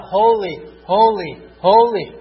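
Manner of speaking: loud proclaiming holy; crying out. Acted. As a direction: cry it out like heaven's anthem. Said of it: "but He's crying out".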